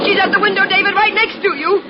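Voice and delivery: frightened. Acted. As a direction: gasp it out in fear. Wife sees woman at window.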